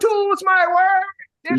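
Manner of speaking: put-on high, drawn-out Toronto accent; mock Toronto accent. Teasing how a rapper talks, exaggerated slow Toronto accent. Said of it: "it's a Toronto accent".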